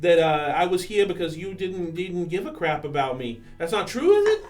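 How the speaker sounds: emotional excitement. Acted. Character reunion, emotional.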